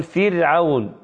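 "فرعون" as fir-awn, thin ر; unvelarized, light r in "فرعون". Shown as a demonstration. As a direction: model "فرعون" with r softened after the i. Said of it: "فترقق".

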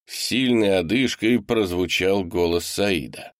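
usual speaking voice

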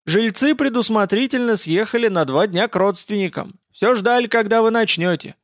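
high-pitched granny reporting eagerly; old woman. Acted. Old woman answers the hunters.

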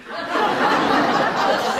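a sudden high, breathy cackle; high wheezing laugh. Acted. Willie laughing at the window joke, high and wheezy.

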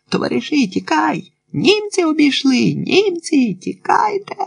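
high, frantic calls of panic; disguised-voice alarm cries. A narrator's reading. Doctor changing his voice to spread panic, high alarm cries. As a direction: cry the warning in a put-on high voice. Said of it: "міняв голос".

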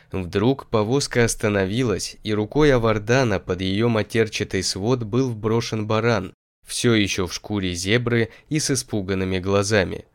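ordinary delivery, nothing marked

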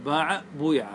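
باع, then بويع with a vowel between "oo" and "ee"; ishmam variant. Shown as a demonstration. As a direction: say باع بويع as "baa-'a, buy-'a". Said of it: "الإشمام".

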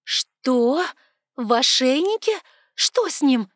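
alarmed. A narrator's reading. Girl alarmed about the commandant, high and loud. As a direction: fire the questions in alarm.

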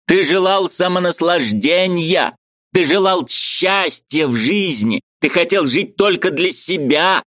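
high, eager voice of a Ukrainian friend; lively high-pitched friend arguing; Mikhalevich's voice. A narrator's reading. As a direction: play the excitable friend up high. Mikhalevich denouncing.

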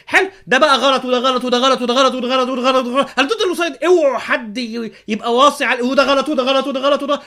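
loud, laughing mock of a preacher condemning everything; mocking rant. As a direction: rattle off the condemnations loudly while cracking up.

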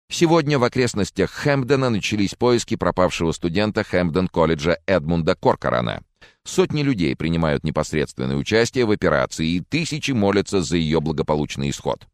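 lightly voiced news anchor reading the bulletin; a hint of formal newsreader delivery. Anchor announces the search for a missing student, lightly formal newsreader voice.

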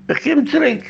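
emphatic high echo of "komm zurück". Retold or imitated. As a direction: repeat it with a big high lift.

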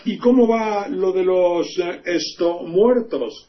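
a hint of a chirpy TV announcer asking; mock announcer asking about the dead; imitating the announcer. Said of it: "pregunta el locutor".

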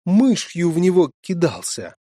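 high, loud indignant scolding; indignant mother. Acted. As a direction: scold the daughter, outraged. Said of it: "негодовала мать". (возмущённая мать)

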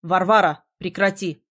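loud stern bark on Варвара. Acted. Mage barking at the stubborn girl. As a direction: bark her name to stop her. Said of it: "Так рявкнул он".

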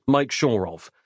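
ordinary delivery

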